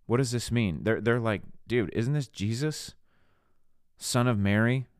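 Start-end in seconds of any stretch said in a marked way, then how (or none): 1.7-4.9 imitating affronted townsfolk, higher on the key questions; offended disbelief. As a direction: scoff in disbelief at the local carpenter. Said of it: "they're offended".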